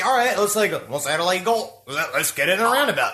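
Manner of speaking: put-on light Australian accent, cheerful; a playful Aussie twang for a night out. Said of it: "that is the best Australian accent".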